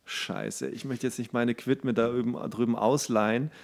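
quiet aside of private dread; inner thought. Pretend. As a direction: think it to yourself, hushed. Voicing her inner thoughts.

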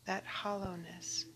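calm recitation with long pauses; prayer reading. Acted. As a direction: read it reverently, pausing after each phrase. Reads a translated prayer.

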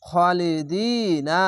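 very slow intoned খালিদিনা with a rising end; slow melodic tajweed reading; Quran recitation. Shown as a demonstration. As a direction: chant খালিদিনা slowly, heavy খ, no aa sound. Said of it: "এখানে খালিদিনা না বলে".

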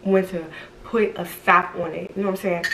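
words shaped around dental retainers; talking with retainers. Real, not acted. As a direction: speak with retainers in your mouth. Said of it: "These damn retainers be having me talk funny".

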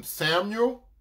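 mildly imitating a voice calling a name; retold call. God to the sleeping boy Samuel, lightly voiced calling.

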